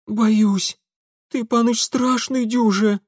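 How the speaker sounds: put-on high, timid village girl; frightened peasant girl. Scared girl telling the young master he's frightening, high and timid. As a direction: shrink away in fear, high. Leska voiced again.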